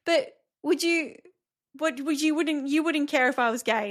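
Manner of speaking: son's voice. Retold or imitated. Son voiced in retold story.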